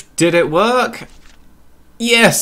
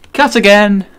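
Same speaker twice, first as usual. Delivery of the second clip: loud, higher call to stop filming; mock director shout; 9 semitones higher, 9 dB louder than usual. Calling the take off like a film director, loud mock shout.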